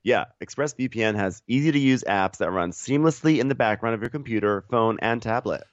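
scripted co-host sponsor read; podcast ad read. Real, not acted. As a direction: deliver the ad copy evenly and emphatically.

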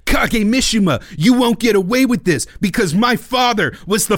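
overwrought video game hero speech; hammy game hero. Retold or imitated. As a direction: declaim it like a cheesy game cutscene. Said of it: "blocky polygon people being like".

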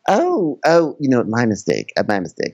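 high, flustered ditzy voice. Retold or imitated. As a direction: babble it high and fast. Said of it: "she's probably asked".

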